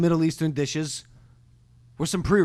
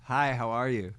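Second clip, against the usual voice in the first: his own reply; 5 semitones lower, 7 dB quieter, slower than usual. Retold or imitated. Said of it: "I go".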